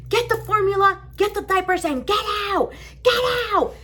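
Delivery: high, urgent commands; imitated harsh order. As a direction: rattle off orders like an evicting officer. Officer orders her out.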